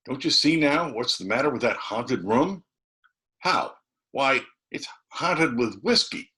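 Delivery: put-on high, lively boyish dialogue; chattering boys. A narrator's reading. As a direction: trade lines like two eager kids. Boys' dialogue voiced high.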